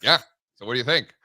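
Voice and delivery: brisk imitated question; all business. Tom skips small talk with JC, brisk and businesslike. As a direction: fire the question off quickly. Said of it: "All business".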